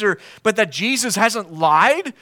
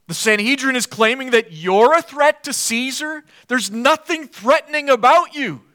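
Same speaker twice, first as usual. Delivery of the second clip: incredulous; 4 semitones higher, 4 dB louder than usual. Acted. Pilate scoffing at Jesus as a threat, incredulous. Preacher voices Pilate's disbelief.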